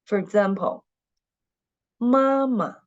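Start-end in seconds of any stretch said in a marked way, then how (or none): 2.0-2.8 mama, second syllable short and light; neutral tone demo. Shown as a demonstration. Teacher modelling the neutral tone for the class, light and short. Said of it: "The second syllable of this word is the neutral tone".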